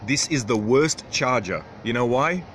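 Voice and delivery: exasperated. Real, not acted. Griping about the worst charger, exasperated.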